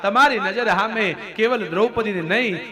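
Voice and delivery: high-pitched appeal to a grandfather; desperate pleading. Acted. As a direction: implore the family elder to step in. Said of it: "આજીજી કરે". (આજીજીભર્યો ઊંચો સ્વર)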